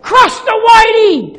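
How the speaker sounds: high, slow, shouted chant of a crowd; crowd scream. Retold or imitated. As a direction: yell it like a whole stadium baying. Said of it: "This is what they're screaming".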